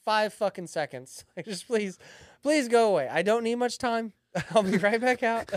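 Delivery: dad begging kids for a moment alone, mock pleading. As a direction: beg the kids to go away, half laughing.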